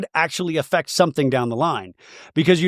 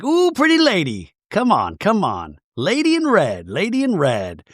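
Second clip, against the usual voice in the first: mock admiring cousin; 6 semitones higher than usual. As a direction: imitate him hooting compliments. Voicing cousin admiring Mary.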